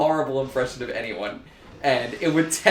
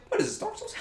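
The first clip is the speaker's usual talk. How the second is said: laughing quip; 8 dB quieter, faster than usual. Real, not acted. Laughing remark at game.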